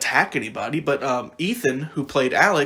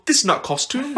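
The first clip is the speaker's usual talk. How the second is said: "This is not costume." in a higher, mock Russian accent; 10 semitones higher than usual. Imitating the actor playing Vlad, in a mock Russian accent. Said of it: "He'd go".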